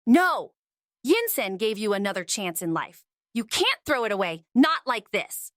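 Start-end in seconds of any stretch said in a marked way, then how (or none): 0.1-0.5 sharp loud protest; shouted no. Acted. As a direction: cry out to stop him. Desperate plea to stop.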